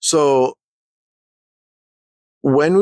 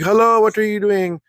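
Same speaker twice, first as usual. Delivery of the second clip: higher-pitched, lightly voiced white guy; a mild mock telling-off as a white guy; 7 semitones higher than usual. Cleaner scolds man walking on wet tile, lightly voiced white guy. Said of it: "I think he's a white guy".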